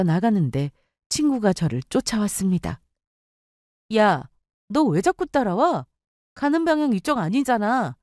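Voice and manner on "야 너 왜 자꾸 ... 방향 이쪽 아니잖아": a bit higher, cool and brushing off; annoyed young woman brushing off her friend; voiced narrator in a quarrel. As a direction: play yourself irritated at being followed.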